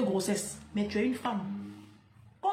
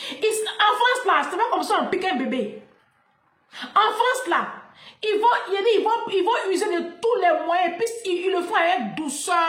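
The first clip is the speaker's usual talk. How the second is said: laughing rant; 7 semitones higher, 5 dB louder than usual. Real, not acted.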